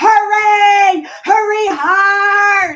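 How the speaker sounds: very high, loud shriek, hard stretched out. Recalling a late-night curling game, retelling own screaming. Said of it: "I'm literally screaming".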